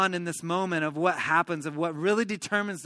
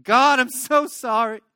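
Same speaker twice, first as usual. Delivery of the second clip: high, anguished plea fading away; acted tearful cry for forgiveness; weeping confession; 5 semitones higher, 7 dB louder than usual. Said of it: "He's weeping".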